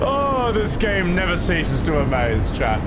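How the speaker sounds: loud, slow, amazed; excited. Real, not acted. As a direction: marvel loudly at the game. Amazed outburst after laughing.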